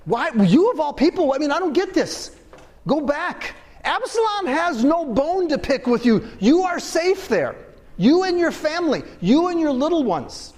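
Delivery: David baffled his friend would follow him; a king who can't understand such loyalty; confused king. Retold or imitated. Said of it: "David's confusion".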